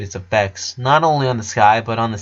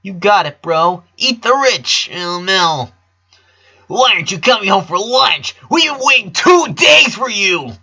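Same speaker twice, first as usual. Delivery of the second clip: lightly voiced kid sister, higher; a bubbly little sister, pitched up; sister's voice; 9 semitones higher, 5 dB louder than usual. A narrator's reading. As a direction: narrator putting on a kid sister's voice. Sisters' messages voiced by narrator.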